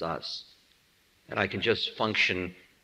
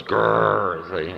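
dog growl; 4 semitones lower, 3 dB louder than usual. Retold or imitated. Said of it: "the dog goes".

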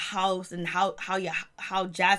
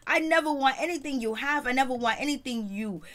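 high, shocked and offended, much higher pitch; outraged mock Imani; 5 semitones higher than usual. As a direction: act out an outraged denial, voice flying up. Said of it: "Imani was like".

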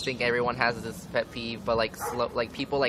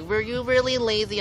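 much higher prissy teacher voice; mock whiny teacher; 10 semitones higher, 3 dB louder than usual. Teacher accusing her of laziness, much higher mock voice. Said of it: "teachers are like".

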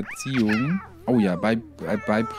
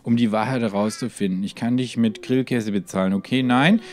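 conspiracy reading. Acted. Reads conspiracy quest text.

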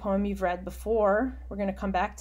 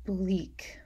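whispered aside. Real, not acted. Teacher whispering while annotating the poem. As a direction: murmur the note as you write.

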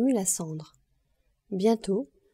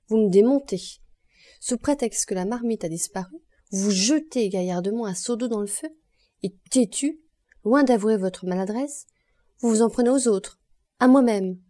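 louder and louder scolding; stern reproach; 4 dB louder than usual. Acted. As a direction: build the rebuke to a loud peak. Madame Lepic berates Honorine.

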